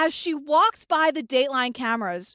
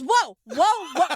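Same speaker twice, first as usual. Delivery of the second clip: mocking Pam. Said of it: "she won't respond other than".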